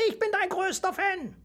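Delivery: very high, adoring squeak; squeaking mouse. A narrator's reading. Mouse declares devotion to dragon Emil, squeaking. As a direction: peep it like a devoted little fan. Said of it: "piepste das Mausel".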